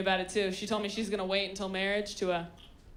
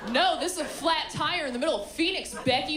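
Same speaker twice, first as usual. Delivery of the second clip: mock rant at Becky; 4 semitones higher, 4 dB louder than usual. Scolding Becky on the trip.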